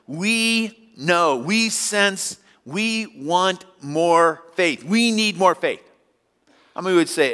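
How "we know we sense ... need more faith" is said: higher, slow plea; begging Jesus for more faith; pleading disciples. Retold or imitated. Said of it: "They're saying this".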